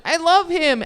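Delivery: high, swooning coo; mock-gushing over the snowman. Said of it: "I saw it, and I went".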